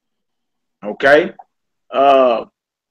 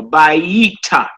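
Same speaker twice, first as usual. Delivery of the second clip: bayita drawn out slowly, weight on the middle, bai-YEE-ta; wrongly placed stress. Shown as a demonstration. Teacher showing students what not to say, bayita with misplaced stress. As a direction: stretch bayita past its first syllable as a mistake. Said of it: "you don't say bayit".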